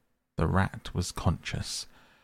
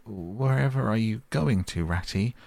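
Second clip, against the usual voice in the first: tearful cry; 5 semitones higher than usual. Acted. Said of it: "cried the tearful Mole".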